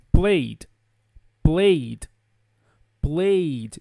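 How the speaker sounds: PLAYED as one syllable ending in a D. Shown as a demonstration. Teacher modelling PLAYED, one syllable with a D sound. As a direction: close PLAYED straight onto a voiced D. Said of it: "Vai ser pronunciado com som de D".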